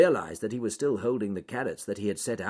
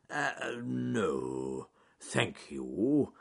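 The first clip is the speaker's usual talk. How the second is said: hasty; much slower than usual. Acted. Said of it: "said Charles Growly Bear hastily".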